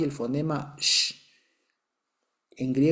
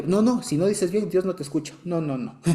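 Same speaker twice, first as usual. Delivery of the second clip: mock insistence; 4 semitones higher than usual. Mock insistence to the failing Greek.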